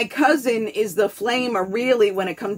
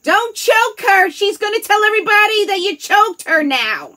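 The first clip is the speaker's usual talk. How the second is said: frantic parent yelling; 13 semitones higher, 8 dB louder than usual. Retold or imitated. Parent yelling at the other parent mid-fight, loud and high. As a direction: shout a warning across the room. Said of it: "the other parent being like".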